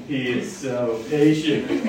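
slow, with a laugh still in the voice; grinning as you marvel at his patience; amused admiration. Real, not acted.

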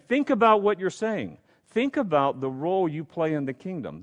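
a preacher voicing a stern John. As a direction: press the disciples as John would. Preacher voices John rebuking disciples.

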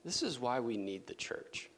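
soft whisper on This is why we need the church; whispered aside. Real, not acted. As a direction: lean in and breathe it. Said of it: "let this be a side note for us".

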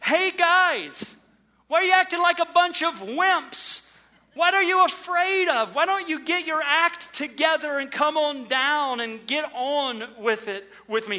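high, loud scolding shout at the frightened disciples; mock yell. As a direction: bellow at them like a scornful drill sergeant. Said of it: "yell out to them".

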